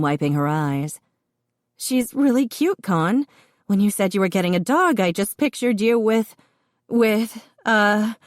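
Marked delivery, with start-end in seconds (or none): 1.8-8.1 much higher, amused teasing sister; giggle-choked big-sister teasing; pregnant sister voice. A narrator's reading. Sister teasing Connor about his tiny dog, giggly and high. Colleen's voice read by narrator.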